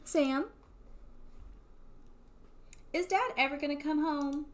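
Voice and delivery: put-on little kid voice. Little brother asking Sam about dad, childlike voice. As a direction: play the small brother asking for his dad. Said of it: "That's what children sound like".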